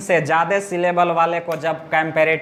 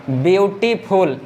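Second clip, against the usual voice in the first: ब्यूटीफुल in three parts, ब्यू, टी, फुल; ब्यूटीफुल sounded out slowly for a class; word broken by syllables. Shown as a demonstration. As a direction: say ब्यूटीफुल with small breaks between syllables. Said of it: "इसमें कितना stoppage लेना पड़".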